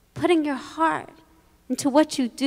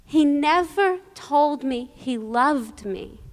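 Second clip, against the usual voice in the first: understated retold grief, a little softer; fighting back tears; 4 dB quieter than usual. Bereaved son to the rabbi after the funeral, fighting back tears. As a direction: hold back tears as you quote him, with slow pauses. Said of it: "fighting back tears, he said to me".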